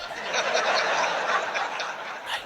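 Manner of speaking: a quiet laugh through the breath; soft breathy laugh. Real, not acted. Father laughing to the audience about his son's joke, soft breathy laugh.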